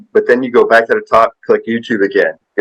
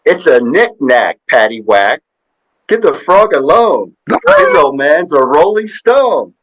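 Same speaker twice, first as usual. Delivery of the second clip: punchline bank president; 5 semitones higher than usual. Retold or imitated. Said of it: "and he goes".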